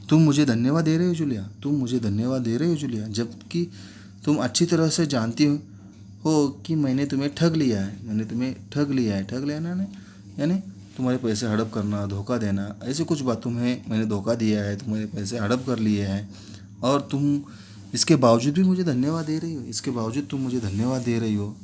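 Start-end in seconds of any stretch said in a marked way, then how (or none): 0.1-9.2 fast, higher, angry outburst; angry shouting. Acted. Master to the maid he cheated, fast and angry. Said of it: "ऊंचे स्वर में वो चिल्लाने लगते हैं". 13.4-21.6 rising into angry disbelief; mild anger. Acted. Master scolding the grateful maid, building anger. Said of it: "गुस्से में".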